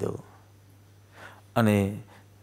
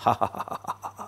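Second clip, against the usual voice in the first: acted "ha-ha-ha" of a tormentor; staged villainous laughter; demonic mocking laugh; 5 dB quieter than usual. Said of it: "અટ્ટહાસ્ય કરતો હોય".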